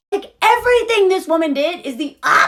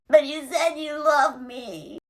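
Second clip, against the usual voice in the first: softer, slow, a touch of crying; mock tearful; 5 dB quieter than usual. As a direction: Carrie pleading with Big. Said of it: "She's like".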